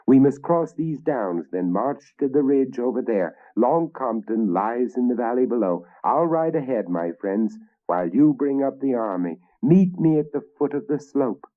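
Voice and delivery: a confident king rallying his knights; commanding king. Acted.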